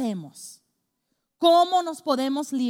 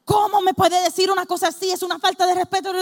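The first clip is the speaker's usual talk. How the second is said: louder, fast and indignant; offended outburst; 3 semitones higher, 5 dB louder, faster than usual. Retold or imitated. Woman insulted over being called skinny, indignant fast outburst. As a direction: spit it out like someone deeply insulted. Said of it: "tú te vuelves loca".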